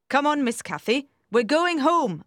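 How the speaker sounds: lightly acted nurse, urging the girl home; insistent nurse. A narrator's reading. Nurse urges girl to leave.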